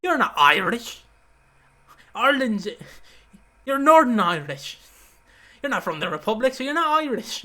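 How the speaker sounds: loud, high mock denial; hammed-up emphatic correction, punched out in bursts; Vince. Retelling a wrestler telling Balls Mahoney off, loud mock indignation. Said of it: "'cause Vince's like".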